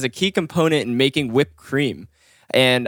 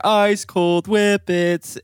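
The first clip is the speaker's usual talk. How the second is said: vendor call; 5 semitones higher, much slower than usual. Retold or imitated. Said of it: "a lot of times you'll hear".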